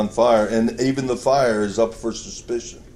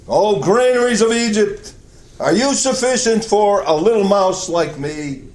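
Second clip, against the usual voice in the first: higher pleading mouse voice; little mouse voice; 6 semitones higher than usual. Acted. Little mouse asking Egypt's granaries for food, in a higher, small pleading voice. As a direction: beg the granaries like a tiny mouse.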